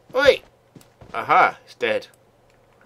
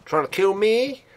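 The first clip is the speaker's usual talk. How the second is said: indignant shout; 8 semitones higher, 5 dB louder than usual. Real, not acted. Attacked by enemy.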